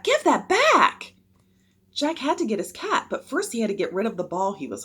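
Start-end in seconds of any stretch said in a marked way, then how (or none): 0.0-1.1 high, loud, drawn-out demand; slow, indignant holler; shouted demand. A narrator's reading. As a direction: shout after someone stealing from you. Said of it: "shouted Jack".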